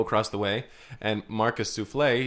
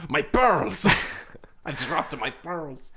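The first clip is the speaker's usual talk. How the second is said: high dismayed cry, then laughing; mock wife wail; 3 semitones higher, much slower than usual. Wife cries out over her scattered pearls, hammed-up. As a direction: gasp over lost pearls.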